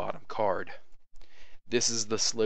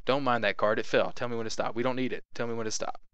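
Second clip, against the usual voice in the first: confident; 3 semitones higher than usual. Shown as a demonstration. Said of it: "you gotta be like".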